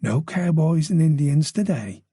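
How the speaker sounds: slow Irish purr. Acted. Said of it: "the voice purred".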